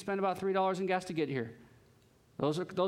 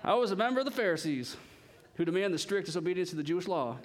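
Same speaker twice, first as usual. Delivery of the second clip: quick, put-on Southern reading; mock Southern boast; Southern accent; faster than usual. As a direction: slip into a playful Southern twang. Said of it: "Southern accent".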